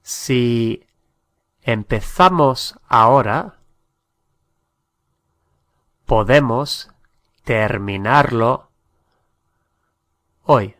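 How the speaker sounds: Si empezamos ahora, podemos terminarlo hoy in separate chunks with long pauses; slow, broken-up model sentence. Shown as a demonstration. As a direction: say it slowly, pausing between the phrases for learners. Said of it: "teacher models the sentence twice".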